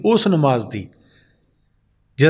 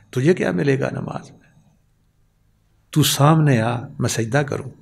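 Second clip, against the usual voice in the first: lower, measured Urdu verse; poetry recitation; 3 semitones lower than usual. Acted. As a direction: recite it line by line, with pauses. (ਠਹਿਰ ਕੇ ਸ਼ਾਇਰੀ ਦਾ ਪਾਠ)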